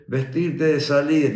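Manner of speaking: lightly mimicked barracks call; high, slow command without shouting; a hint of an instructor calling out; imitated military order.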